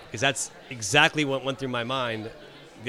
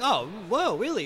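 surprised; 5 semitones higher than usual. Retold or imitated. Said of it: "it was like".

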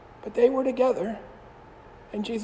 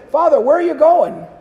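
calling out; 5 semitones higher, 8 dB louder than usual. Retold or imitated. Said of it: "And the young man said".

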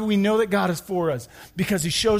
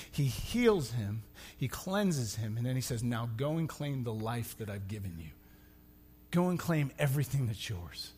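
hushed telling; 7 semitones lower, 7 dB quieter than usual. Acted. Pastor retelling Jesus' words, hushed. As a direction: draw them in quietly.

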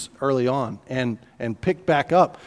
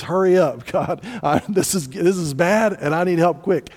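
slightly raised, pressing appeal to God; urgent plea; 2 semitones higher than usual. Acted. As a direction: act out a hurried cry for help. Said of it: "That means".

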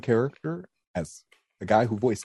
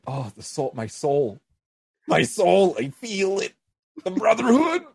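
building higher and louder to a swooning cry; mock-overwhelmed, rising with each soul; hammed-up rapture; 10 semitones higher, 4 dB louder than usual. Guest retells her overwhelmed reaction, hammed-up and rising.

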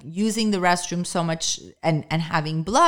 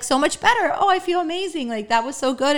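mock relief; 10 semitones higher, faster than usual. Mocking people who overshare.

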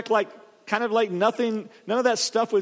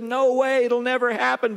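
bold denial; 5 semitones higher than usual. Retold or imitated. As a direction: brush off the warning with full confidence. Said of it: "And Peter said".

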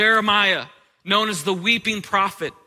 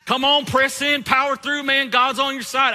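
preachy Christian; 4 semitones higher than usual. Retold or imitated. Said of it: "They'll say things like".

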